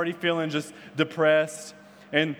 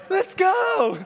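high, loud burst of excitement; hyped shout; 6 dB louder than usual. Retold or imitated. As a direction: yell it like a rallying cry. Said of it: "And I was hyped".

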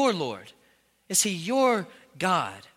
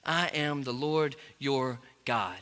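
voice of God; 7 semitones lower, 6 dB quieter, slower than usual. Acted. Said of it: "he will continually say this".

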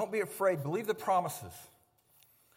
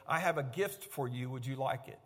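gentle offer; 6 semitones lower, 5 dB quieter than usual. Shown as a demonstration. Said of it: "you say".

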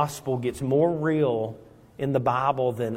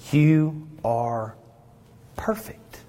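tender Christ; slower than usual. Acted. Christ speaks to believer at wedding.

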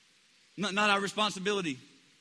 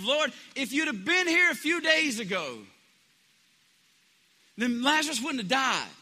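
higher, louder reproach; grieving Martha to Jesus, higher and louder; Martha's reproach; 6 semitones higher, 4 dB louder than usual. Retold or imitated. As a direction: let her blame spill out. Martha's perspective voiced.

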